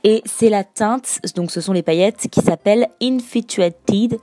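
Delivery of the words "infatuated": Infatuated read with a French accent, said "infitɥatid"; an English word spoken in a French accent; l'anglais avec l'accent français. Real, not acted. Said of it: "désolée pour mon accent absolument horrible".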